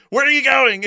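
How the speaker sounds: high, loud puzzled call; baffled Trump. Pretend. Trump calling after fleeing Putin, loudly baffled. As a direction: call after him in disbelief. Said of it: "Trump would be like".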